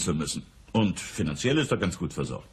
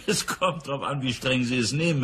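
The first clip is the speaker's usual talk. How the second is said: a laugh spilling into the words; 4 semitones higher than usual. Acted. Businessman laughs off the detective's remark. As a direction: still laughing as he answers.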